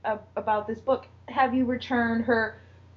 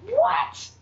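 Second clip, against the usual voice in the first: shocked what; 12 semitones higher than usual. Retold or imitated. Both react in shock.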